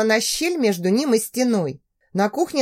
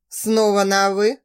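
strained restraint. Acted. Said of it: "Говорил сквозь силу".

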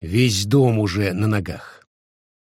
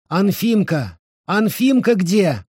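put-on higher calling out for the boy; anxious calling; 10 semitones higher, 3 dB louder, slower than usual. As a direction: call the son in alarm. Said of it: "звала Дамаша". (встревоженно зовёт сына)

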